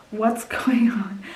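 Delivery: the same question, whispered slowly. Shown as a demonstration. Reader repeating her puzzled question, now whispering. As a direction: breathe it out like a secret.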